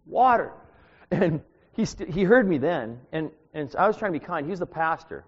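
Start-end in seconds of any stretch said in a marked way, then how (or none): 0.1-0.5 loud repeat. Retold or imitated. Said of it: "maybe he didn't hear me".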